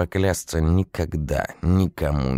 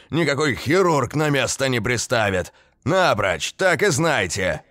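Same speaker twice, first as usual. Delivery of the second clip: yelling again; 6 semitones higher than usual. A narrator's reading. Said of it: "снова заорал".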